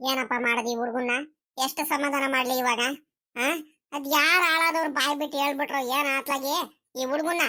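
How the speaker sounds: put-on an old woman at her wits' end over a crying boy; fretting old grandma.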